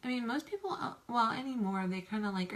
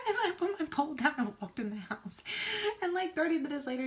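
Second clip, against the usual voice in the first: higher, louder, laughing as she tells it; laughing through it; 9 semitones higher, 4 dB louder, faster than usual. Real, not acted. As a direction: giggle out the line, a bit faster. Laughing while retelling.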